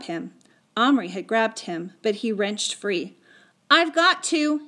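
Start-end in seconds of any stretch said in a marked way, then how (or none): 3.7-4.7 high, louder desperate plea; panted insistence. A narrator's reading. Patrick wrenching free of his friend, panted insistence. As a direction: insist urgently, as if in a struggle. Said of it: "he panted".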